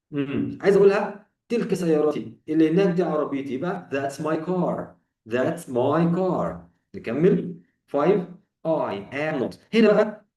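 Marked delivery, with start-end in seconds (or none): 3.9-6.6 slow, clear "that's my car"; slow model sentence. Shown as a demonstration. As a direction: say it slowly for students to repeat. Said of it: "قول بعدي وكرر". (جملة نموذجية ببطء)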